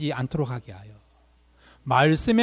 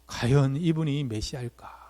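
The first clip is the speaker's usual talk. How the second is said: doubtful wondering; 2 semitones lower, 5 dB quieter than usual. Retold or imitated. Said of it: "그럼 어떤 마음이 들겠습니까?".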